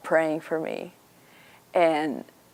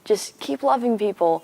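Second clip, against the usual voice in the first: gushing Carol; 7 semitones higher than usual. Retold or imitated. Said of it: "And she's like".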